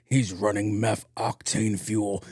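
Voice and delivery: slow, drawn-out mock movie line; lightly hammed-up street-racer delivery; Fast and Furious mode. Driver smelling exhaust plays movie racer, mock-dramatic and slow. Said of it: "I went Fast and the Furious mode".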